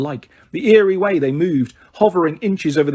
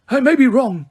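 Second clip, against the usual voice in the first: pleasant; 10 semitones higher, 4 dB louder than usual. A narrator's reading. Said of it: "said Dumbledore pleasantly".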